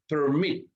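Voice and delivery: "permit" with the weight on "mit"; stress on last syllable. Shown as a demonstration. Teacher showing second-syllable stress, "permit" stressed on MIT. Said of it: "la mayor fuerza de voz".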